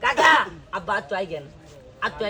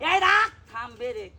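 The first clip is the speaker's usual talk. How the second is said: sudden loud high shout; loud magician's cry; showman shout; 7 semitones higher, 7 dB louder, much slower than usual. Acted. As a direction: bark it out to startle the crowd.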